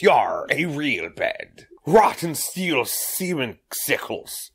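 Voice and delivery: lightly voiced slow pirate. Joking in a slow, mild pirate voice. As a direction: drag it out like a lazy pirate. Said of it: "I'm slowly becoming the pirate voice".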